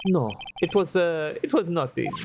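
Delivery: lightly put-on French accent, café owner voice. Café owner telling the lawyer what happened, light French accent. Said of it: "I hate doing the accent".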